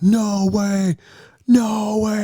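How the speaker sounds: high, loud mock gasp of disbelief; excited disbelief. Imitating partner's amazed reaction to the new Jeep, high and excited. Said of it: "You came up like".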